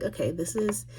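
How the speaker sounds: baffled side-eye at all the emotion; incredulous inner voice. Retold or imitated. Inner reaction to crying woman.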